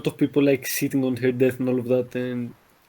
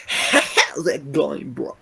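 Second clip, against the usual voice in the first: slow, drawn-out Swedish YouTuber greeting with a laugh; hammed-up Swedish vlogger hello; PewDiePie Swedish accent; much slower than usual. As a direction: stretch it out in a mock Swedish accent. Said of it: "Do it in the PewDiePie Swedish accent".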